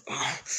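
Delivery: short grunt of recoil; startled groan. Acted. Licht backing up after a flash of his wife, startled groan. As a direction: let out a small startled groan.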